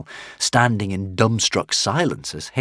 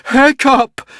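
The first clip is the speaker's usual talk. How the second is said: much higher, louder cry of pride; proud joyful cry; 9 dB louder than usual. Acted. Valhalla Rama clutching Hiccup, proud joyful cry. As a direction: call his name bursting with pride. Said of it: "astonishing pride and joy in her voice".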